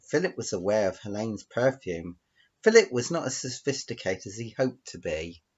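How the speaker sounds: lilting read-aloud with stressed names; story narration. Acted. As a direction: read the tale out, savouring the names. Reads out own story.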